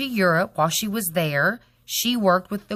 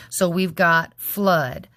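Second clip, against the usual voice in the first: syllable by syllable; slower than usual. Shown as a demonstration. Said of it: "divided it into syllables".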